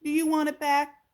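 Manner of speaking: high, loud mouse question; little mouse offering the tooth; squeaky mouse. A narrator's reading. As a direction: mouse asking the crocodile about the tooth. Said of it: "turning around to face".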